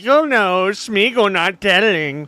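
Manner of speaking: lightly voiced creature, drawn-out words; a hint of a sly movie creature; Smeagol. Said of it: "that Smeagol shit that he just said".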